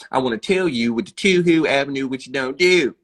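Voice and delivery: exaggerated Baltimore accent on the oo vowels; mock a president talking in thick Baltimore slang. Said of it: "He don't be like".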